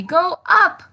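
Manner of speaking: high, bouncy call to go up; broad singsong kids theatre. Shown as a demonstration. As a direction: cheer him upward like a kids' show host.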